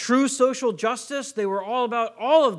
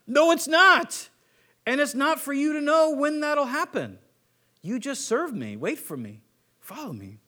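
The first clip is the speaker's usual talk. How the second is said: a firm no that softens into an invitation; gentle firm Jesus; 5 semitones higher than usual. Retold or imitated. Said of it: "he's like".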